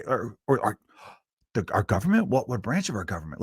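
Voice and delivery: halting, bewildered questions; stammering confused mock reply; baffled reply. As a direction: act out someone stumbling over their own disbelief. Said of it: "is gonna be like".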